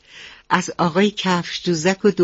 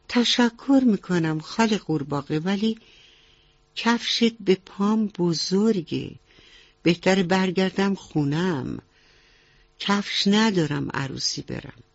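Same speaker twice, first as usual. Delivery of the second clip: a touch higher, mildly disappointed mouse; lightly played mouse lady declining kindly; lightly voiced downcast mouse lady; 4 semitones higher than usual. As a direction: voice a polite storybook mouse, let down.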